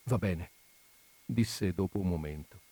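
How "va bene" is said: overwhelmed, quiet. Acted.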